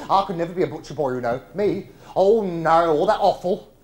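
usual speaking voice

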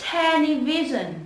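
"Television" slowed, pitch falling at the end; hạ giọng cuối. Shown as a demonstration. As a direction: let "Television" step down to its last syllable. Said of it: "Sẽ hạ giọng xuống". (đọc "Television" chậm, cuối từ hạ giọng)

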